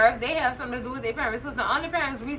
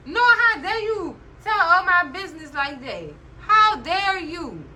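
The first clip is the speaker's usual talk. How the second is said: mock scolding; 3 semitones higher, 3 dB louder than usual.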